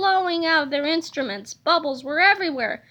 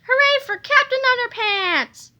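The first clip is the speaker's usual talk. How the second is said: cheering; 8 semitones higher, 4 dB louder than usual. Acted. Cheering the hero.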